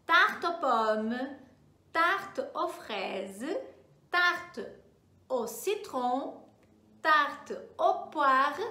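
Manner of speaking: each "tarte" drawn out slowly, like a teacher modelling; slow French drill. Shown as a demonstration. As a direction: model "tarte aux pommes" slowly for the class to repeat. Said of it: "Vamos só treinar".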